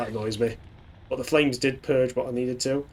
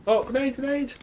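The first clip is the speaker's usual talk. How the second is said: grenade warning yell. Real, not acted. Grenade thrown at his troops.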